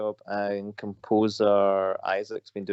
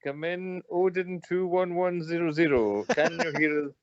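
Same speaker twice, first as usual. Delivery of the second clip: mock radio operator; 4 semitones higher than usual. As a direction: hail the missing friend like a radio operator. Mock radio call to absent friend.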